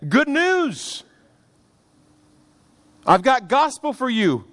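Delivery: excited good news. Acted. Cushite messenger running to the king, overjoyed. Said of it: "here the Cushite said".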